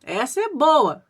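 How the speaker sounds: mildly acted gleeful relish, drawing out the praise; gleeful celebrating. Husband showing off the found drink, mock-gleeful. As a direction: imitate someone pleased with his find. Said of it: "todo faceiro começou a comemorar".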